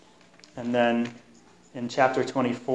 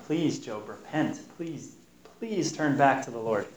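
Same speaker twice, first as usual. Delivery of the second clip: softer, hushed pleading; quiet begging; 6 dB quieter than usual. Retold or imitated. Eliphaz quietly urging Job to repent, soft pleading. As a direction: plead softly, almost under the breath. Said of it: "he's just begging him".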